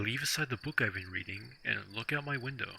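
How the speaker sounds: muffled, speaking into a hand; talking into hand. Real, not acted. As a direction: mouth pressed against the hand. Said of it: "why are you talking into your hand?".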